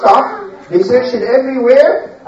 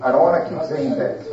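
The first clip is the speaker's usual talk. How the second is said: stern aside; 8 semitones lower, 8 dB quieter, faster than usual. Real, not acted. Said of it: "Sarah and Dina".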